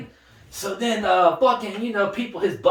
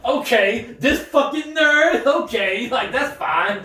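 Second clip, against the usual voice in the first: flustered Biden; 3 semitones higher, much slower than usual. Pretend. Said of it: "And Biden's like".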